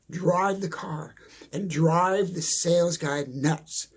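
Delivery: usual speaking voice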